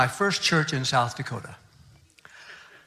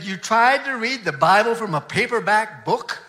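indignant complaint; 6 semitones higher, 4 dB louder than usual. Retold or imitated. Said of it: "He was furious".

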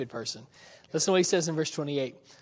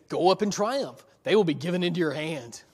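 dry, lightly sarcastic read; wry verse reading with mild irony; a little sarcasm; 4 dB louder than usual. Shown as a demonstration. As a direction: let a hint of mockery in. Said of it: "I read that with a little sarcasm".

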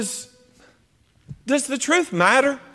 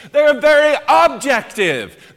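emphatic preaching; 5 semitones higher, 4 dB louder than usual. Real, not acted. Preacher driving the point home.

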